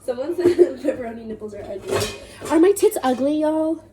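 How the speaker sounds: repeating it while cracking up, fast; can't get the words out without giggling; laughing through it. Real, not acted. Repeating the story to her friend, laughing fast.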